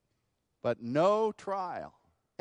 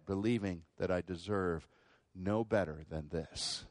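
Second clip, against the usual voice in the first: humble repentance; 2 semitones lower than usual. Retold or imitated. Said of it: "He said".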